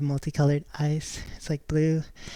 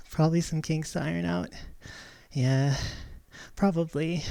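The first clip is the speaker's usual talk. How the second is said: breathless after dancing; out of breath. Real, not acted. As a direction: talk while catching your breath. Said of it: "I'm out of breath".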